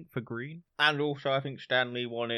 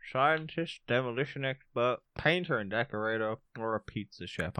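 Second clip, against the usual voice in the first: reading with a sweet in the mouth; mouth full; 3 dB quieter than usual. Real, not acted. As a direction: talk round a sweet. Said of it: "I'm eating a sweet".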